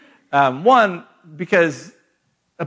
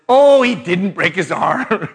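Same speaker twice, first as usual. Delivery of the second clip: dismissive brush-off; 3 dB louder, slower than usual. Retold or imitated. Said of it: "So I said".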